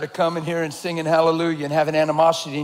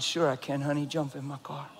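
kind reassurance; 4 semitones lower, 9 dB quieter than usual. Retold or imitated. His kind answer to the woman.

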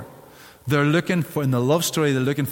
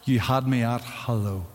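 wife's tender reply; 4 semitones lower, 5 dB louder, much slower than usual. Retold or imitated. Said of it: "and she goes".

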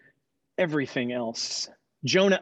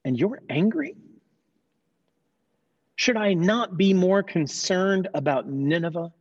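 God's voice, lightly voiced; 3 semitones higher than usual. God chides the sulking Jonah, lightly voiced and earnest. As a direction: speak as a patient divine parent chiding his prophet.

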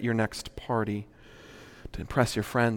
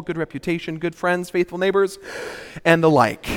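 in one breath; 3 semitones higher, 4 dB louder than usual. Shown as a demonstration. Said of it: "I'll try to do it in one breath".

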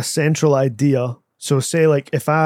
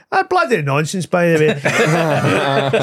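a hint of a grumbling uncle; Frank; much slower than usual. Shown as a demonstration. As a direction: grumble in a mild uncle voice, stretching the end. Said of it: "Frank could notice that".

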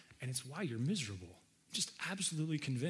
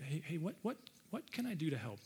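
soft offer; 6 dB quieter than usual. Acted. Spouse offering help, soft.

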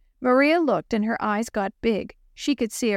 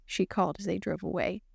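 usual speaking voice

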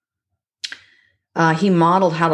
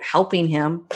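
air quotes; slower than usual. Shown as a demonstration. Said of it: "I'm doing air quotes".

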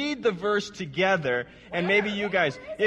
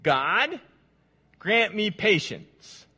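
praying for patience through teeth; 2 semitones higher, much slower than usual. Acted. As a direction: grant me patience, then yell hurry up. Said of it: "He says".

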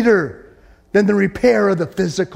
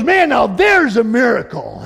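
excited exclaim; 4 semitones higher than usual. Retold or imitated. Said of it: "He goes".

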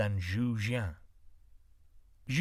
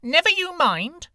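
firm woman; 12 dB louder than usual. A narrator's reading. Woman rebuffs the beggar.

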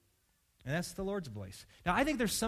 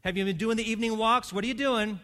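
anxious patient; 3 semitones higher, 5 dB louder than usual. Retold or imitated. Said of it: "the person who says".

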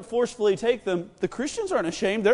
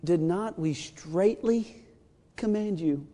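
lower, softer, slow and threatening; menacing rebuke; 5 semitones lower, 5 dB quieter, slower than usual. Shown as a demonstration. Council rebuking the apostles, slow low menace. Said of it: "Or they could have said it like this".

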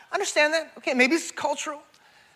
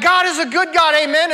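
lightly voiced rousing worship leader, higher pitch; worship pastor's exhortation; 4 semitones higher, 5 dB louder than usual. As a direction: rouse the congregation a little, pitched up.

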